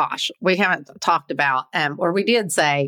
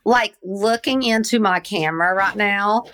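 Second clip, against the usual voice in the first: stoned. Real, not acted. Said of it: "she's stoned".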